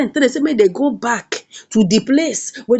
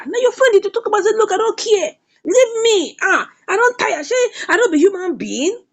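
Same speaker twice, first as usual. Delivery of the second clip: higher-pitched, mildly acted exasperation; fed-up outburst; 9 semitones higher than usual. Benita's friend saying she is tired, acted exasperation. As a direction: play a friend who has had enough.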